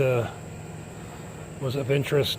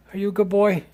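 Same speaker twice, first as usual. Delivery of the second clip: high sing-song pet voice; 7 semitones higher, faster than usual. Real, not acted. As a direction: coo at the dog, pitch way up. Praising the dog.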